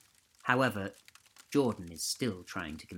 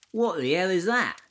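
shocked; 9 semitones higher, 8 dB louder than usual. A narrator's reading. Johnny shocked by the video.

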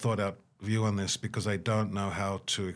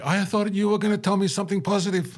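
high, loud, laughing mock complaint; laughing as the refugee, pitched up high; 11 semitones higher, 6 dB louder than usual. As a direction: play the refugee, half laughing. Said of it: "They're like".

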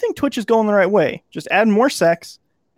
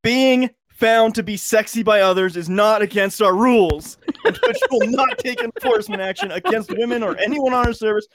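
measured read of a corporate statement; formal statement reading. Shown as a demonstration. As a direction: read it like an official announcement. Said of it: "read it in normal voice".

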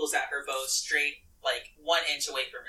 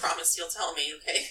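tearful. Acted. Character crying over friend.

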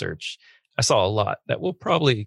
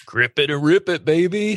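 hyped-up cheer; 8 semitones higher than usual. Pretend. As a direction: fire everyone up. Hyped cheer before reading.

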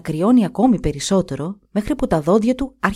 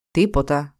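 sad; 3 semitones lower than usual. Acted. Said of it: "είπε θλιμμένο ο Δούκας".

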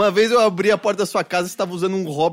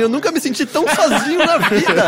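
laughing; 9 semitones higher, 4 dB louder than usual. Real, not acted. Mock lament, laughing.

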